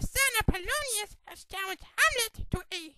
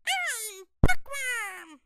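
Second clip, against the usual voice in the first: slow, drawn-out puppet voice; proudly drawling his own name; slow puppet name call; 6 dB louder, much slower than usual. Acted. Second voice repeats the name.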